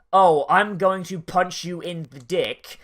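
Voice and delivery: mock-angry tough talk, drawn out; slow, forceful threat, put on. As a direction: say it like an impolite delinquent. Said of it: "it'd be angry sounding".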